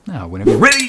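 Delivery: loud call to begin. Acted. Tutor signals the princess to start the duel, loud call. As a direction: challenge her to begin.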